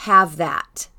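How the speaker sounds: lightly voiced toddler talk; a hint of little baby talk. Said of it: "in her little baby voice".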